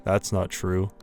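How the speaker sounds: a cold villain toying with his prey; anime villain. Acted. Lamb Chop ordering Ruby to eat, menacing villain voice.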